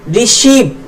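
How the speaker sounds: "रिसीव" with a long stressed "ee"; long ई sound. Shown as a demonstration. Teacher answering their own drill question, "रिसीव" with long "ee". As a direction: draw out the "ee" in "रिसीव". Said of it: "उसका उच्चारण ई हो जाएगा".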